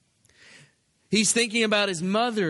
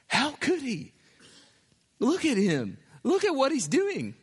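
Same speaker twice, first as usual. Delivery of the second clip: amazed disbelief; 7 semitones higher than usual. Acted. Preacher marvels at Jesus' forgiveness.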